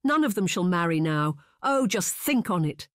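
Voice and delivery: savage wailing. A narrator's reading. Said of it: "Missus Wickliffe cried savagely".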